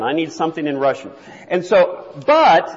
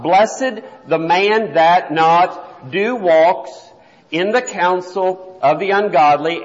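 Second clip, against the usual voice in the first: literal word-by-word reading; slower than usual. Shown as a demonstration. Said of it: "we don't talk like that".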